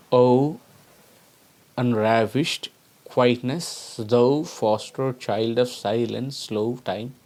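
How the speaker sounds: "O", "unravished", "quietness" picked out singly, then slow; vowel flow stressed. Shown as a demonstration. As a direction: draw out the vowels. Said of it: "There is a flow of vowel sound".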